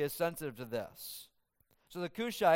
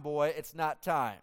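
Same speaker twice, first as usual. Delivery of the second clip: stern dismissal; slower than usual. Retold or imitated. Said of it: "what I pictured Joab saying to Ahimaaz".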